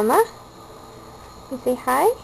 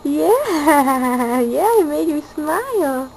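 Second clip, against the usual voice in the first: delighted laugh; 2 semitones higher, 4 dB louder, slower than usual. Real, not acted. The baby finally smiles.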